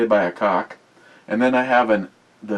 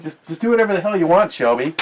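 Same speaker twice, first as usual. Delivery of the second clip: talking to a dog; 9 semitones higher, 6 dB louder, faster than usual. Real, not acted.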